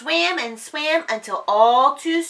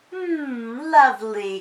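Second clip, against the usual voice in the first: delighted sniff; 3 semitones higher, 3 dB louder than usual. Acted. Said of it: "sniffing the flowers".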